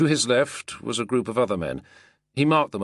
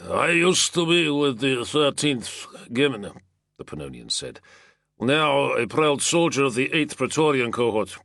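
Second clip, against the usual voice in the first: proud Pannonian soldier; 5 semitones higher than usual. A narrator's reading. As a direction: boast of your cohort. Pannonian introduces comrades.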